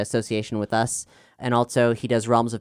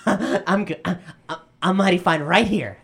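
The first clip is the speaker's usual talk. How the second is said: nervous laugh; 7 semitones higher than usual. Acted. Kid brother backing down.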